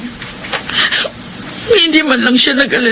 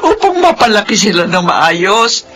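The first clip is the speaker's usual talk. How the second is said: sobbing lament. Acted. Mother sobbing to brother.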